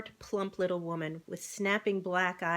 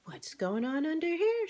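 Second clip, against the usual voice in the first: higher, bright farm-wife call; higher, surprised farm wife; Mrs Bean surprised; 9 semitones higher than usual. A narrator's reading. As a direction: peek under the stove, startled.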